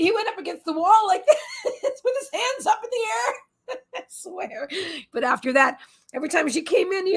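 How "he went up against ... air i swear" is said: high, laughing retelling; words bubbling with laughter; laughing through it. Real, not acted. Telling viewers how the vet backed against the wall, laughing.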